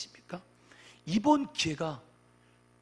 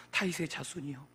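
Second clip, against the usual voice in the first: restrained first call of the beggar; understated imitation of a cry; retold crying out. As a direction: imitate the plea in an everyday pitch. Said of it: "바디메오가 주님께 부르짖었다는 거예요".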